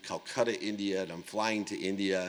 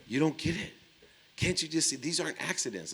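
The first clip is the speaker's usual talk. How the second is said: higher, pleading voice of the wife; a lightly voiced wife, pitched up and pleading; wife's earnest plea; 7 semitones higher than usual. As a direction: plead like she can't believe he misses it. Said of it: "would tell me".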